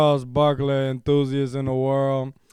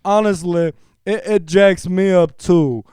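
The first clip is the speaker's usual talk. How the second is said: best voice. Pretend. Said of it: "I'm gonna read this in my best voice here".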